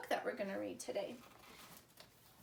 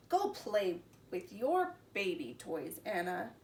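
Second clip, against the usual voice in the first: dismissive brother; 3 semitones lower than usual. Acted. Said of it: "he said".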